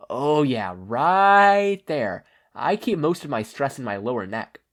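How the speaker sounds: put-on relaxed young hero. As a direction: lean into it like a massage.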